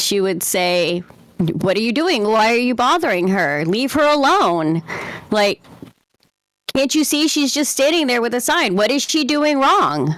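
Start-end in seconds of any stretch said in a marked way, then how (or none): 1.4-10.1 begging, imploring, swooping pleading voice. Voicing a character who confronts guards harassing a young woman: pleading. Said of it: "She would plead with them".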